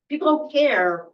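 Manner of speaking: emphatic. Real, not acted. Frustrated venting in a meeting.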